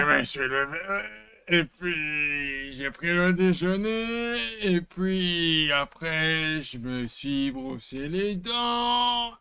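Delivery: strained constipated voice. Acted. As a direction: push the words out as if constipated. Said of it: "On dirait qu'il est constipé". (voix de constipé)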